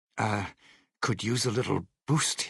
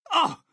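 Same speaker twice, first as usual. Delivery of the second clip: pained cry; 6 dB louder than usual. Acted. Acted game cry when hit.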